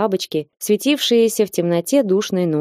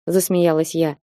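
ordinary delivery, nothing marked

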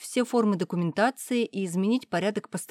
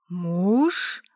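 hissed; 6 dB louder than usual. Acted. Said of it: "прошипел папа".

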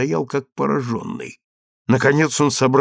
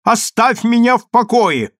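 higher, louder, fed-up shout; irritated shout; 9 semitones higher, 6 dB louder than usual. Acted. Wife refusing the husband's magnetism, irritated shout. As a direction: push him off with a loud snap. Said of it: "закричала раздражённо Адель".

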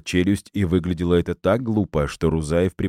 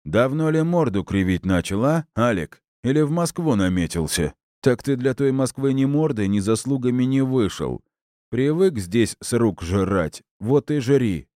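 higher, mocking voice of a rude drunk; scornful drunk host; 7 semitones higher than usual. A narrator's reading. Host sneering at the colonel about Moscow, mocking. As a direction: jeer at the guest's pride.

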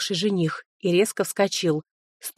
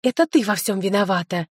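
ordinary delivery, nothing marked

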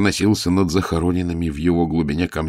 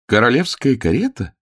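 surprised lady's exclamation, pitched up; exclaimed; 7 semitones higher, 4 dB louder than usual. A narrator's reading. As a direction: cry out in surprise at the carriage. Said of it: "воскликнула дама".

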